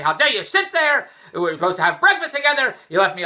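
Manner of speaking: hammed-up scolding; retold hollering. Imitating his wife yelling at him over breakfast, mock angry. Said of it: "Andrew was hollering at me".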